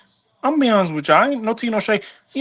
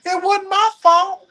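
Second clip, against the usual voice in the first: laughing; 11 semitones higher than usual. Real, not acted. Laughing while telling story.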